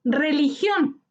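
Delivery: Religión with weight on GIÓN; stress on last syllable. Shown as a demonstration. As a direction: lean on the final GIÓN of Religión. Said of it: "Su sílaba tónica está en gion". (Religión con acento en la última sílaba)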